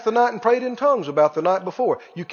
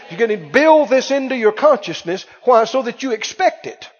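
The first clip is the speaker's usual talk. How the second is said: normal talking voice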